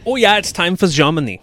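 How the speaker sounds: mock German accent. Host announcing Germany in a silly high German accent. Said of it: "talk really high-pitched".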